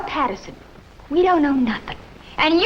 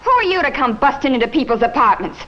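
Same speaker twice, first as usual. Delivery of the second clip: angry; faster than usual. Acted. Woman orders police out.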